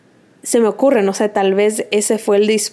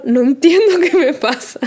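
retold panicky plea; 5 semitones higher than usual. Retelling panic to boyfriend.

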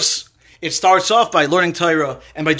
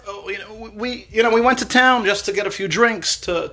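higher, halting excuse with false starts; stammering; 4 semitones higher than usual. Acted. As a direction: stumble nervously through an excuse. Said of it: "So they stammer".

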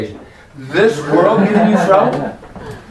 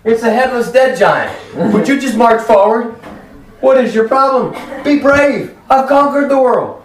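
exasperated son of David; 4 semitones higher than usual. Acted. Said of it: "son of David standing there with a sword in hand going".

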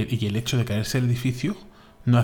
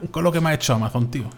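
mock indignant; 5 semitones higher, 4 dB louder, faster than usual.

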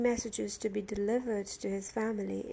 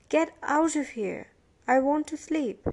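high, loud, fed-up complaint; irate would-be sleeper; angry order; 5 semitones higher, 6 dB louder than usual. A narrator's reading. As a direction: send him away, exasperated. Prisoner drives Billy away.

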